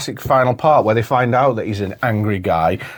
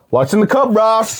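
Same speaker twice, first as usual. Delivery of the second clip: higher, pointed quote; mock menacing; 10 semitones higher than usual. Friend imitating Ben Stiller threatening Ross. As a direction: press Ross with the question. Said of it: "Ben Stiller's like".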